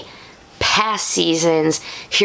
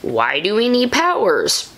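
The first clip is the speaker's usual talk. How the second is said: imitating the Rangers; 4 semitones higher than usual. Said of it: "they're like".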